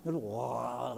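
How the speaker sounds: soft, low mock gargle; mimicked gargling. Shown as a demonstration. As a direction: imitate an overdone gargle. Mimics excessive gargling while fasting. (menirukan suara berkumur)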